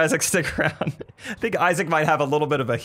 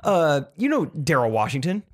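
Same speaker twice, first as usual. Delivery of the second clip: excited storyteller; 3 semitones higher than usual. Retold or imitated. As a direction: imitate someone bursting to tell a story. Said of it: "someone's, like, really excited".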